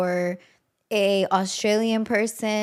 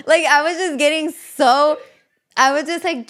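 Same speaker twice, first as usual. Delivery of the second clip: laughing while talking; 6 semitones higher, 6 dB louder than usual. Real, not acted. Laughing at her own story.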